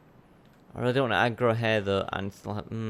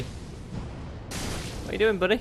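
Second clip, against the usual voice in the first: taunting whisper; 9 semitones higher, 4 dB quieter, much slower than usual. Acted. Taunting an enemy NPC.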